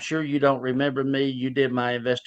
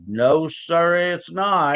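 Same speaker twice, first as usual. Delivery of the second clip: higher, louder, proud "no sir"; bright denial; 6 semitones higher, 3 dB louder, much slower than usual. Retold or imitated. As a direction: answer proudly that she's changed. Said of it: "And she goes".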